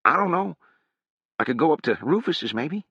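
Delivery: put-on high-pitched, whining young man; high whiny youth. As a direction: pitch it up like a scrawny kid. Harrogate voiced by reader.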